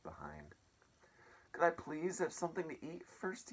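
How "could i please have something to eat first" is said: put-on hungry boy asking. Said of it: "he asked".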